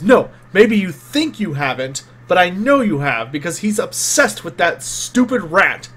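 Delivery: emphatic, lightly acted accusation; pointed accusation. Game master as Gustav accusing a crewmate over the rat, pointed and insistent. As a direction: push the key words accusingly. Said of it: "he points a finger at you and goes".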